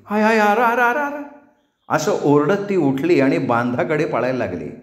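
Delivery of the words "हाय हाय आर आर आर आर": high, loud startled shouting; sudden loud cry of alarm. A narrator's reading. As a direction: yell out and run. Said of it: "जोरात ओरडली".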